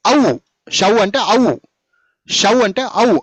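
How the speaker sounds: very slow, spelled-out teaching voice; slow teaching drawl. Shown as a demonstration. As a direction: stretch each syllable slowly. Teacher drawing out a sound.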